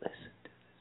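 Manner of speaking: unvoiced creepy whisper. Imitating the whispering host to the podcast friends. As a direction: breathe it like a secret. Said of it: "he's just whispering".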